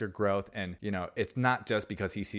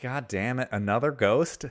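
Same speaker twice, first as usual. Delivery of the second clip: a mock exasperated groan, louder on ghost; 4 semitones higher, 5 dB louder than usual. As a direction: grumble it like a fed-up old miser. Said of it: "And he's like".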